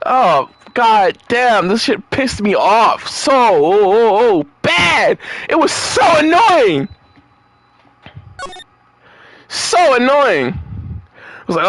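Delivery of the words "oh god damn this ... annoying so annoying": annoyed rant. Real, not acted. Ranting about an annoying scene.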